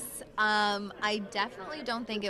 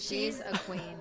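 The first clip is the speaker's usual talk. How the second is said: whisper; 2 semitones lower, 3 dB quieter, slower than usual. Real, not acted. Whispering about grandma.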